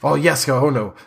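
lightly acted dismayed priest. Priest runs to sobbing child, dismayed. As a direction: comfort with mild alarm. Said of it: "Father Lucien runs up the stairs".

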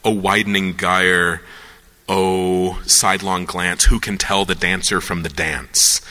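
low, measured poem recitation; reciting poetry. Acted. Quoting a great poet to the audience, low recitation. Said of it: "Refke's a great poet, and he said".

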